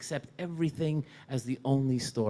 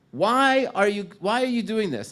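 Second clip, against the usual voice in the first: pleading outcry; 7 semitones higher, 7 dB louder than usual. Retold or imitated. Rabbi confronts zealot leader.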